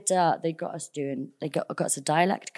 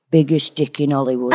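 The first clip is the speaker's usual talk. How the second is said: quoting grandma; 3 semitones lower, 7 dB louder than usual. Retold or imitated. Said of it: "She goes".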